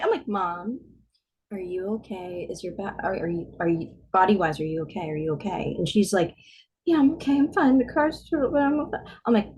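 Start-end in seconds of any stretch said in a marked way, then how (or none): 0.3-5.7 acted calm concern. Daughter asking mom about injuries, calm. 6.8-9.0 higher, pressed reassurance; imitated upset mother. Mom assuring daughter she's fine, upset.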